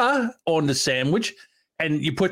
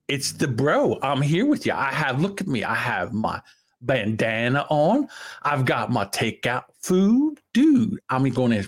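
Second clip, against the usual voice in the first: Pauly Shore impression. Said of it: "It's Pauly Shore here".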